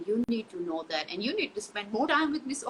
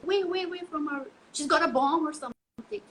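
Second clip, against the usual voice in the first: higher, louder mock panic; mock alarmed stranger; 7 semitones higher, 4 dB louder than usual. Imagined stranger warning others, mock alarmed and higher. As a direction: play a frightened bystander pointing her out. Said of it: "kept on saying it".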